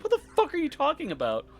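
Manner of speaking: high yelled disbelief; loud. Retold or imitated. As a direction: shout it in total confusion. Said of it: "I was like".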